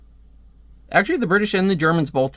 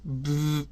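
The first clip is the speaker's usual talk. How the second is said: short, softer vocal buzz; imitated buzz; 7 dB quieter than usual. Comic reader voicing a sound effect, softer imitated buzz. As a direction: make a buzzing sound effect with the mouth.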